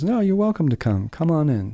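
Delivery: imitating a kindly hostess; welcoming organist. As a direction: lift the pitch to welcome a visitor in. Organist welcomes visitor in retold story.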